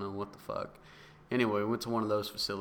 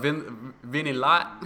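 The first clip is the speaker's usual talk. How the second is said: calling out a name, loud and higher; mock barista call; 4 semitones higher, 8 dB louder, slower than usual. Joking about coffee nicknames, mock barista calling out. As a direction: shout the order name like a barista.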